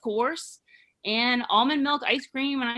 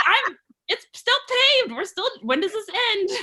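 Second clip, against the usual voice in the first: much higher and louder, slowed, laughing; laughing disbelief; 11 semitones higher, 6 dB louder than usual. Retold or imitated. Herself on No More Road, laughing in disbelief. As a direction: crack up in disbelief.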